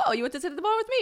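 high-pitched mock surprised question; surprised waiter. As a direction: imitate the waiter's pleased disbelief. Imitating surprised French waiter.

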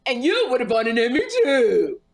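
playful put-on cartoon voice. Comedian teasing her friend about winning too, cartoon voice. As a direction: tease back as a cartoon character.

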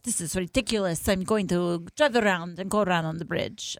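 imitated Russian driver's accent; shaky Russian accent. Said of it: "What a sexy accent you just pulled out".

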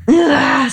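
open sigh. Shown as a demonstration. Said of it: "so open that they can just come in".

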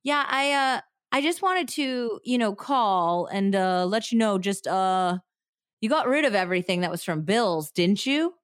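halting, stammering caller. Acted. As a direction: stumble through it nervously. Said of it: "his own special stuttering and stammering way".

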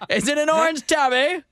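high-pitched foppish inquiry; pompous suitor character. Pretend. Gentleman asking after her cat, foppish character voice. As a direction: ask it in a lofty put-on voice. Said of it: "that's my new character".

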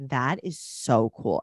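low, drawn-out mock admiration; sarcastic. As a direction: feign being impressed, slow and low. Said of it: "being sarcastic, was like".

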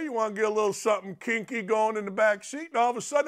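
ordinary talk

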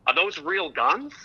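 a cop asking slowly and carefully; slow cop question. Retold or imitated. Cop at the car window asking about the guns, slow and wary. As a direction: ask it slow, like a wary officer. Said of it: "they go".

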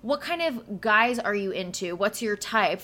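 imitating a gushing bachelorette, fast and high at first; mock girly chatter. Friend imitating Gabby and Rachel's giddy first chat, mock gushing. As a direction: play up giddy girl talk, lightly mocking. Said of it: "when Gabby and Rachel sit down and start talking".

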